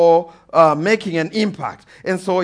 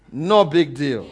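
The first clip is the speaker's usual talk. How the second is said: offhand dismissal; 4 semitones lower, slower than usual. Real, not acted. Dismissive drop after build.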